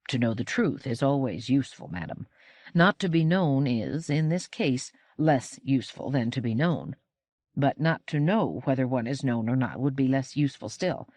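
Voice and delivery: lightly voiced grave, logical robot; measured robot companion. Robot companion reasons with his lady, measured.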